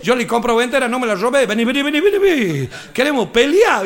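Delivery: chasing the waiter down; rowdy gaucho drunks. Retold or imitated. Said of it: "salen por detrás".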